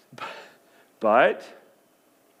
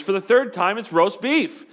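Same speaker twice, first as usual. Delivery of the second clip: exasperated wife; 4 semitones higher than usual. Retold or imitated. Wife to husband on the third ask, exasperated and raised. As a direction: snap it like she's said it twice already.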